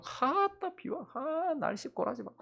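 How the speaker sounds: high, hushed sighing gripe; acting out a sighed complaint; mock grumbling. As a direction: grumble in a high, soft moan. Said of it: "원망하고".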